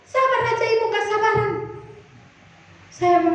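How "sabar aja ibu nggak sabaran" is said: higher-pitched imitated chiding; curt nurse. Nurse telling anxious patient to wait, imitated impatient chiding. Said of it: "Susternya pun ketus-ketus, judes-judes".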